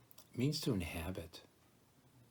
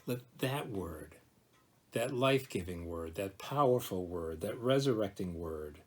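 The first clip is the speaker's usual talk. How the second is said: preaching. Real, not acted. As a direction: build a solemn litany, pausing between phrases. Preaches on the emphasized word.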